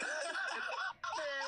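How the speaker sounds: hamming up the random voice from the game; mock voice. Quoting the game's voice, a high hammed-up voice. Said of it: "this random fucking black guy voice".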